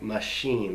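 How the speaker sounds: Machine with a long 'ee' in the second syllable. Shown as a demonstration. Teacher giving the example word for long I, clear 'ee' in Machine. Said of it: "That's a long I".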